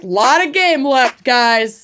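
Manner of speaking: bold, booming sports-fan cheer; full-throated confidence. Shown as a demonstration. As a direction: call it out like a seasoned coach. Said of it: "with, like, full-throated confidence".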